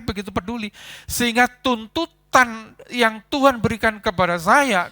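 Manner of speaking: ordinary talk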